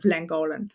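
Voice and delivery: Llangollen in a very English version; English pronunciation. Shown as a demonstration. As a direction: anglicise Llangollen, no Welsh guttural sounds. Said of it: "I'm giving a very, very English version".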